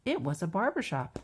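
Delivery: measured, lively picture-book narration; children's story reading. A narrator's reading.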